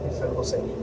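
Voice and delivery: whispered confession, barely voiced. Son whispering the news to his parents, hushed. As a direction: breathe it out under his breath.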